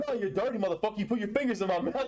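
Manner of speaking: high-pitched mock accusation; mock angry fighter. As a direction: play an indignant fighter calling out cheating. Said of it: "He's like".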